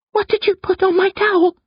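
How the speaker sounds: put-on very high, controlled girl's voice; quiet question. A narrator's reading. Sister studying the pink chunk questions her brother, quietly. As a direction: ask it high and contained, not shouting. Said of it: "she asks quietly".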